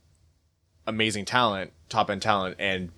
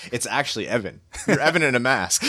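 chuckling through the words; laughing; 3 semitones higher than usual. Real, not acted. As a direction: joke while laughing. Laughing while joking.

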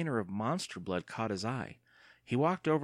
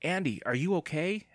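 anxious cry; 8 semitones higher than usual. A narrator's reading. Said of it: "Evan cried".

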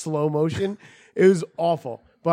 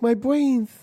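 mock dying groan; 8 semitones higher than usual. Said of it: "He's like".

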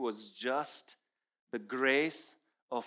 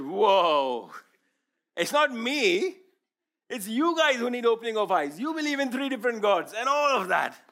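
indignant retort; 8 semitones higher, 10 dB louder than usual. Retold or imitated. Arguing back at praying lady.

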